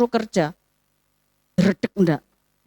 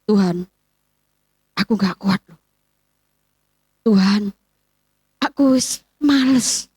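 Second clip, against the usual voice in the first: low, weary mock whine to God; a lightly hammed-up weary believer groaning; a touch of a tired, lazy moan, slowing at the end; whiny complaint; 4 semitones lower than usual. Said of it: "kalau menghadapi masalah ngomongnya apa".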